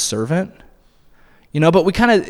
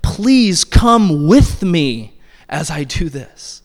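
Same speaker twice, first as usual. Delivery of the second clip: pleading; 3 dB louder, much slower than usual. Acted. Paul pleading with them.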